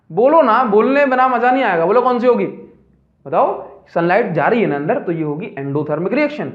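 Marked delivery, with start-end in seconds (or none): 0.1-2.4 higher-pitched urging; lively, insistent coaxing; insistent prodding. Real, not acted. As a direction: press the class for an answer. Teacher prodding silent class to answer.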